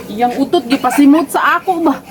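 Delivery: half-laughing, half-wailing protest; laughing complaint. Real, not acted. Mother laughing at her child about the fart smell. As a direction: laugh through the words in mock outrage.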